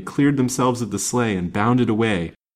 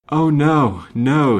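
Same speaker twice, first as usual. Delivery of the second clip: louder, higher moaned refusal; moaning; 6 semitones higher, 7 dB louder, much slower than usual. A narrator's reading. Injured woman to her rescuer, moaning. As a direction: moan it out in pain. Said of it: "she moaned".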